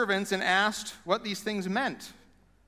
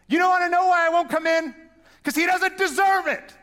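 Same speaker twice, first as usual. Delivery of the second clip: loud, much higher furious rant; angry older son; 8 semitones higher, 5 dB louder than usual. Retold or imitated. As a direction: rage at the father, refusing to come in. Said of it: "He's like".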